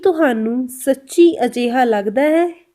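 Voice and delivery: very slow, careful question; slow Punjabi demo. Shown as a demonstration. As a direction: spell it out for learners. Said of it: "Punjabi में कैसे बोल रहे हैं हम". (बहुत धीमे पंजाबी सवाल)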